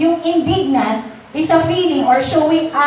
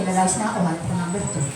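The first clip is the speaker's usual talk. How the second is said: gleeful spouse; 7 semitones lower, 7 dB quieter, much faster than usual. Retold or imitated. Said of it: "yung asawa naman tuwa-tuwa siya".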